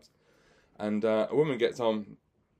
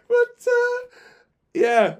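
laughing; 9 dB louder, much slower than usual. Real, not acted. Laughs after the punchline.

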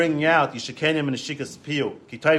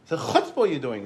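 higher-pitched mock outrage at the nerve; retold indignation; 4 semitones higher than usual. Visitor objecting to a twig in the king's fire, indignant. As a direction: scold with rising, incredulous questions. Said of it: "the guy was angry".

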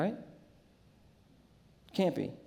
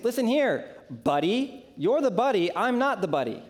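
higher, lightly heated comeback; mock indignant retort; 5 semitones higher than usual. Big brother snapping back at his brother, mock indignation. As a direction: push back, half-joking irritation. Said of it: "I was like".

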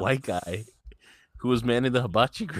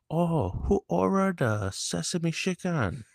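imitating a waiter's fake Asian accent, higher and slow; higher, slow mock Asian accent; 8 semitones higher, slower than usual. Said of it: "putting on an Asian accent".

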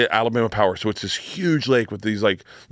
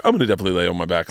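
lazy now; 6 semitones lower, much faster than usual. Retold or imitated. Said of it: "Now I'm like".

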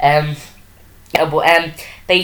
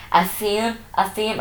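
ditzy Orla voice; 5 semitones higher than usual. Retold or imitated. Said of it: "turns around and is just like".

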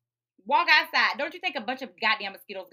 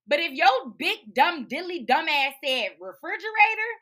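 scornful scolding; 6 semitones higher, 5 dB louder than usual. Real, not acted. Host berating wrong answers about fish, scornful scolding. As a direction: lay out each insult emphatically.

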